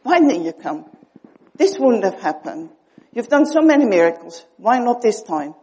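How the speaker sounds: challenging the Lord, hurt and loud; confronting, arguing. Retold or imitated. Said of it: "when Martha confronted him and argued".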